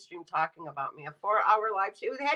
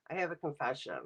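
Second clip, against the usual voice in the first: softer, lower, like a secret; hushed confession; 7 semitones lower, 8 dB quieter, faster than usual. Shown as a demonstration. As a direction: drop the voice for the confession.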